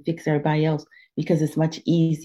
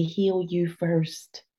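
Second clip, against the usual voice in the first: slow quiet self-talk; 6 dB quieter, much slower than usual. Shown as a demonstration. Telling yourself to heal.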